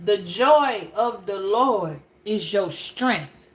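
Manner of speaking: slow scripture reading. Shown as a demonstration. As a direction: read the verse out slowly, word by word. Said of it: "It says".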